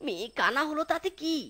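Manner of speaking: quiet, thinking-aloud aside; muttered aside. Acted. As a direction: scheme under your breath. Thief thinks to himself.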